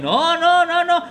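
high, quick no no no; mock nervous no; high mock refusal. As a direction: squeal the refusals like nervous friends. Friends refusing to come closer.

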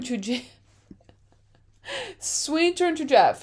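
whispered through a laugh. Pretend. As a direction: hush it like a camera aside. Mockumentary aside, laughing whisper.

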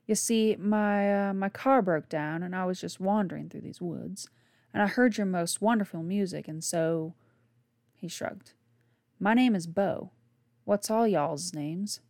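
loud, folksy Southern drawl; deepening Southern drawl. Acted. Bo charming the campers with his story, Southern drawl. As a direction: lay on the Southern accent thicker. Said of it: "his accent ever deepening and improving".

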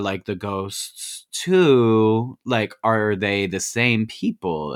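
drawn-out, slow mock questioning; hesitant questioning. Retelling him asking Abby about the drawings, slow and hesitant. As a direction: stretch the words as he pieces it together.

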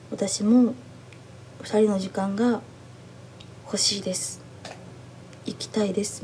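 imitated tearful plea, understated and trailing into softness. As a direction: mildly mimic someone close to tears, halting between phrases. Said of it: "涙声で".

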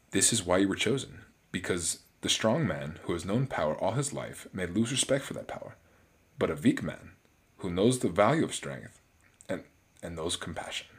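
a hint of a German accent, W's turned into V's; lightly put-on, patchy German accent. Reading Abraham Erskine's quote to the chosen man, in a light German accent. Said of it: "intertwined some German accent on there".

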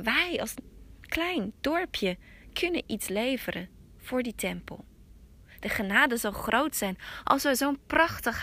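an elder proudly bringing news of the emperor; elder urging Hetaro to give up the willow; eager village elder. Acted.

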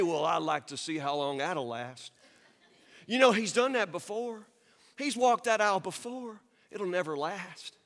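subdued, doubting wet-blanket voice; lightly acted grumbling doubter; skeptical naysayer. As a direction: drop the energy and pour cold water on it. Acts out the doubting naysayer's reply.

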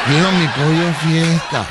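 imitating a caller with no spirit; mock listless caller. Host mimics the caller's lack of spirit, mock listless. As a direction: parody an unenthusiastic contest caller. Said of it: "Con ese mismo ánimo que usted está hablando".

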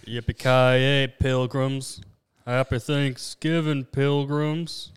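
slow, loud cowboy drawl; an old western star, drawn out; John Wayne. Retold or imitated. A friend closing the riff as John Wayne, in a slow, loud cowboy voice. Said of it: "I'm John Wayne".

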